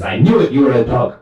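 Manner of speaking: high, indignant outburst; acted accusing yell. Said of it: "they start yelling at each other".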